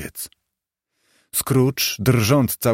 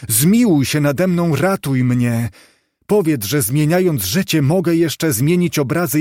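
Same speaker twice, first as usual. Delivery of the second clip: higher, louder desperate plea; begging; 4 semitones higher, 3 dB louder than usual. Acted. Scrooge on his knees begs the ghost, higher pleading. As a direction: beg for mercy at the grave. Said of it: "błagał Scrooge".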